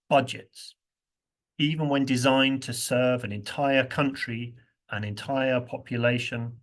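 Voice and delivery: measured speech read with pauses; reading a speech aloud. Shown as a demonstration. Teacher reading Jacinda Ardern's budget speech aloud, measured. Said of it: "we can read it aloud together".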